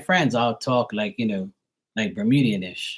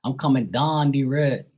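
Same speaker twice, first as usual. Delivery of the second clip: higher Bermudian accent, "down" as "dahn"; 4 semitones higher than usual. Shown as a demonstration. Contrasting local speech with standard, strong Bermudian accent. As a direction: say "road" as "reed", Bermudian style. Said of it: "a lot of people here, they talk".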